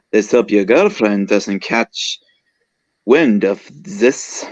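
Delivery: put-on slow, drawn-out French accent; French-accented character, taking it very slowly. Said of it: "This is my French accent, by the way".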